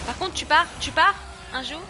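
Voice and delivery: high, loud shout at the screen; urgent shouted command. Real, not acted. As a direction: yell at her to leave. Yelling at game character.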